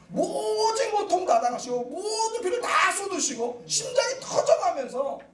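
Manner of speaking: drawn out, weighty; slow solemn. Real, not acted. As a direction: stretch each word with pathos. Solemn slowing climax. (비장하게 천천히)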